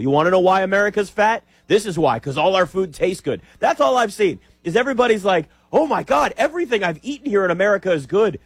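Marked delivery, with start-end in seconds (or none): 5.7-8.4 put-on British accent. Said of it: "British accent the whole time".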